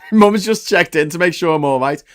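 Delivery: said through a laugh; amused chuckle through the words; laughing about mum checking in. Real, not acted.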